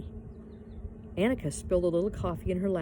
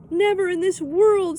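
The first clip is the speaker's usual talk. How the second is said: firm refusal; 12 semitones higher, 11 dB louder than usual. A narrator's reading. Annika refuses firmly.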